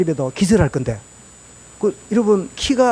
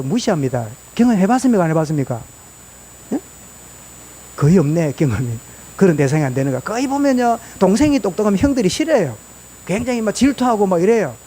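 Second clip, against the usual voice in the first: ordinary talk, nothing marked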